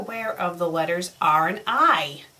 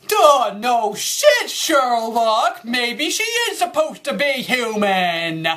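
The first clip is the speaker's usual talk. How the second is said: loud, drawn-out mocking "duh"; sarcastic outburst; 3 dB louder than usual. Real, not acted. Reader jeers at an obvious line, scornfully sarcastic.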